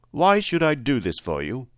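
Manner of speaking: a hint of an imposing wizard; lightly voiced Great Oz. Great head challenges little Dorothy's request, lightly voiced wizard.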